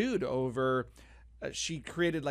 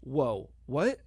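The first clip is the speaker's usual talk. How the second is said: sidekick reaction; 3 semitones lower than usual. Shown as a demonstration. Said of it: "you have to say".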